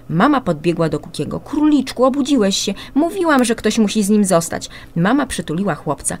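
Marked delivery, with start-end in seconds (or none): 1.4-4.7 a hint of a worried, tender mum, higher; soothing the little one with a touch of worry; lightly voiced mother. Mother comforts son. (lekko zagrana troskliwa mama, wyżej)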